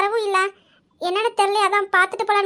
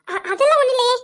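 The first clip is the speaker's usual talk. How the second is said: higher, stammered tearful denial; 5 semitones higher, 3 dB louder than usual. Acted. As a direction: stumble into a denial through tears. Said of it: "தார தாரையா கண்ணீர் ஊத்துது". (அழுகையோடு தடுமாறி மறுத்து)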